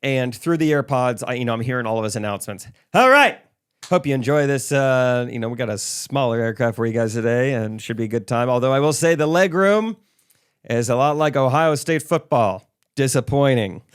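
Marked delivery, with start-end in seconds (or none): 2.9-13.8 cheesy pilot announcement. Retold or imitated. Retold plane announcements.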